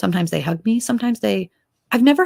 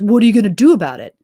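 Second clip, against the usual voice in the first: fast, louder, imitating a defiant challenge; 5 dB louder, faster than usual. Abusive parent snapping back at the intervener, imitated defiant dare. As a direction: throw it back as a mock dare. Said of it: "And that person goes".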